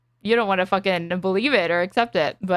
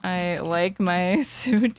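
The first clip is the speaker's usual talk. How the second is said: slow, lower mock Slavic accent, laughing; 4 semitones lower, much slower than usual. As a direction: drag out the words in a light Slavic accent. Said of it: "Slavic accent".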